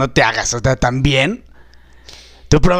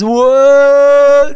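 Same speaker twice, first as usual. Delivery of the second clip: excited wow; 7 semitones higher, 6 dB louder than usual. Acted. Stoned nephew offered McDonald's.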